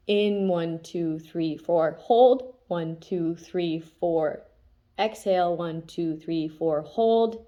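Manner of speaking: counting slowly, holds stressed; counting breaths. Shown as a demonstration. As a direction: guide box breathing, counting each beat. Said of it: "It's like".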